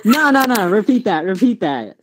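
taken aback, demanding a repeat; playfully affronted, pressing for an answer; mock indignation. Player challenging a friend's remark, mock indignant.

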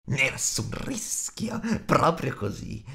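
slow, hissed creature whisper; sussurro tra sé. A narrator's reading. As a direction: mutter it to yourself like a scheming creature. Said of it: "sussurrò tra sé e sé". (sussurro lento di creatura, tra sé e sé)

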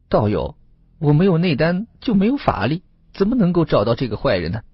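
high-pitched, fretful fox complaint; woeful old fox. Acted. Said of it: "老狐狸愁眉苦脸地说道". (老狐狸高嗓诉苦)

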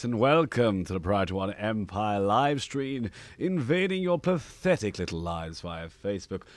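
pompous imperial villain greeting; evil overlord. Acted. General James greeting his loyal subjects, evil overlord. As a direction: hold court like an evil general. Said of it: "Sounds evil accent".

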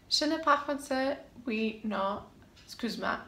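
French phrases with a foreign accent; French with English accent. Shown as a demonstration. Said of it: "my French accent is terrible".

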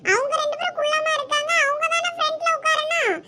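a younger classmate asking why they moved back; college girl voice. Acted. Friend asking the girls why they sit at the back, girlish.

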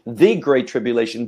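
THE stressed as a full "thee". Shown as a demonstration. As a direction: point up the article THE in the phrase. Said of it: "Both definite articles are there".

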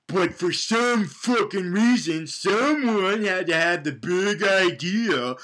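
ordinary talk, nothing marked

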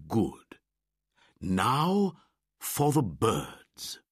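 put-on slow old bear voice; Baloo. A narrator's reading. Baloo defends his lessons, slow bear voice. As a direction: lumber through it like a patient old bear.

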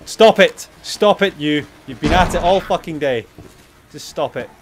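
high, loud exasperated shouting; angry yell. Real, not acted. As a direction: shout at it to stop. Yelling at zombie.

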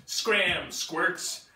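loud, gruff T-Rex voice; roaring T-Rex. Acted. T-Rex challenging the little triceratops, loud monster voice. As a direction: boom it like a big dinosaur.

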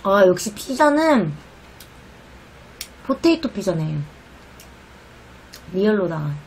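chewing while talking; biting into cheesy slice; mouth full of pizza. Real, not acted. Seen 1: Mouth on cheesy pizza slice, biting throughout labelled words.

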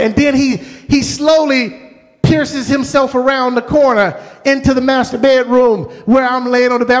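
ordinary talk, nothing marked

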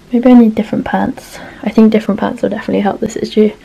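slightly out of breath; talking while catching breath. Real, not acted. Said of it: "I'm slightly out of breath right now".

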